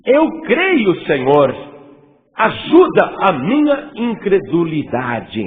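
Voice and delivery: tearful plea. Retold or imitated. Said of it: "clamando com lágrimas".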